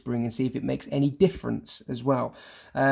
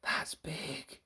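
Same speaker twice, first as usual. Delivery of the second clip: breathless whisper in shock; awed whisper about the giant; 3 semitones higher, 14 dB quieter than usual. Shown as a demonstration. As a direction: whisper it, stunned. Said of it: "like that whispering there".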